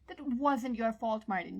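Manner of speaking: slow, gentle plea leaning on wasn't; pleading. Acted. John comforting guilty Martin, a slow gentle plea. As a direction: soothe him, slowly begging him to believe it. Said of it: "John pleaded".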